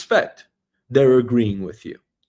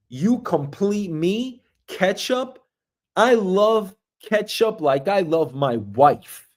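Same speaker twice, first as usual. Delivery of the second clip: mock romantic; 4 semitones higher, slower than usual. Romantic devotion to ketchup.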